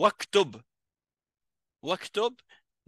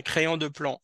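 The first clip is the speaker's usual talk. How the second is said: corrected phrase; 3 semitones higher than usual. Shown as a demonstration. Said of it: "On dit".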